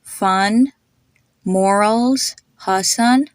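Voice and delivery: "Fun, morals, Hassan" one at a time, same uh; matching UH vowels. Shown as a demonstration. Teacher asking listeners to hear the same sound, uh in each word. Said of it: "they have the same sound".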